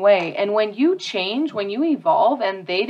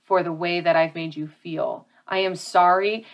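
sincere apology; 3 semitones lower than usual. Shown as a demonstration. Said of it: "And apologize".

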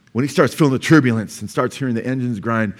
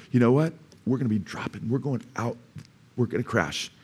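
level with a passenger, softly and soberly; understated, quiet warning of a crash; realist stewardess; 4 dB quieter than usual. Acted. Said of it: "she's just real, a realist".

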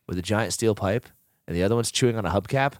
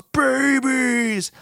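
high, drawn-out mock yell; hammed-up falling scream; Shredder; 11 semitones higher than usual. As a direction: holler it like an outraged villain. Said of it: "and Shredder yells".

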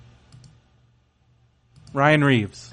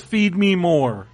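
Ryback catchphrase; slower than usual. Retold or imitated. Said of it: "he also says".

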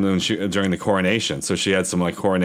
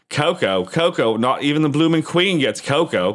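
lightly put-on Cockney, incredulous and higher; mock Cockney; 4 semitones higher than usual. Retelling a server refusing mother cocoa, mock Cockney. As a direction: imitate a scornful Cockney server with a light touch. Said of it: "say that in our terrible Cockney accent".

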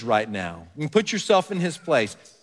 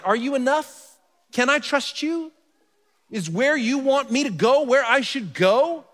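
anxious doubting questions; 9 semitones higher than usual. Retold or imitated.

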